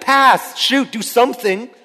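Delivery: high-pitched barrage of sideline orders; exasperated coach's yell. Retold or imitated. Coach to boy standing in the corner with the ball, yelling. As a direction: imitate a frantic coach hollering at a player. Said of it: "I would just yell constantly".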